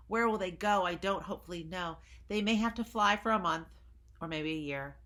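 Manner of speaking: mildly voiced Lorax mourning; lightly voiced Lorax. Lorax lines read to children.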